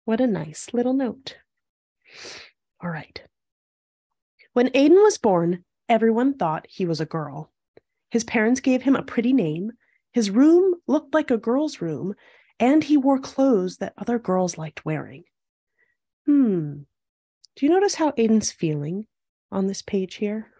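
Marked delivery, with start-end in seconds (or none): 4.5-15.2 measured storybook read-aloud; picture-book narration. A narrator's reading. Host reading a picture book to young viewers, storytelling. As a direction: read it clearly to young children.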